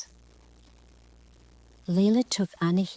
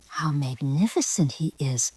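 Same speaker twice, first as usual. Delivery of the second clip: breathless whispered awe; awed exclamation. Acted. Girl seeing the peacock's fan, whispered awe. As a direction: marvel at the fan under your breath. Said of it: "exclaimed Layla".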